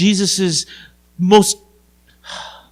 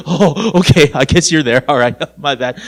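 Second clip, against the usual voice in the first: mock-sheepish backing down, lower pitch; sheepish concession; 4 semitones lower than usual. People answer God after his display, sheepish and joking. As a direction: concede quickly with a little laugh.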